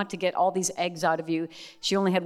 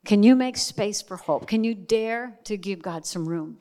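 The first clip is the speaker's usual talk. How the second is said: louder appeal. Shown as a demonstration. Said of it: "Can you make space for hope tonight".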